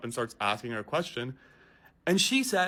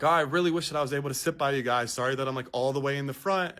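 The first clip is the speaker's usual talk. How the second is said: quick, louder fake-sweet mock apology; passive aggressive; 4 dB louder than usual. Mom imitated talking at her kids to guilt the passenger, mock sweetness. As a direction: needle him while pretending to talk to the kids. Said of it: "passive aggressive in the way that she's speaking".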